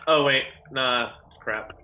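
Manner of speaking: normal talking voice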